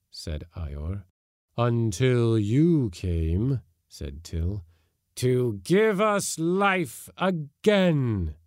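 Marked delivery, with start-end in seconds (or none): 1.6-8.4 slow, rising, louder and high at the end; menacing ghostly promise; eerie spirit voice. A narrator's reading. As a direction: hunger for new life.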